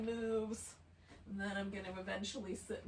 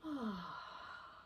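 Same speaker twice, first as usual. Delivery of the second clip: audible sigh. Shown as a demonstration. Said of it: "Let's take a nice big breath together".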